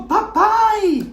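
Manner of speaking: put-on papai lifted high and bright, child calling; a granddaughter hugs her father's neck: a high delighted papai; child's happy cry.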